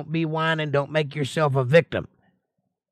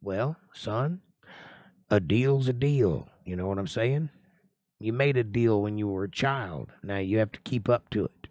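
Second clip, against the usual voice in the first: father's flat refusal; 3 semitones lower than usual. Acted.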